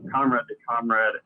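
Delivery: usual speaking voice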